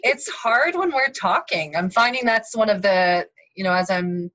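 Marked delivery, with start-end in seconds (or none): 0.0-1.8 slow deliberate. Shown as a demonstration. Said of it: "I can be so obsessive with this stuff".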